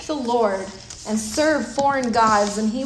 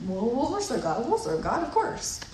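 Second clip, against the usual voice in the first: offhand agreement; 5 dB quieter than usual. Retold or imitated. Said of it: "them just saying".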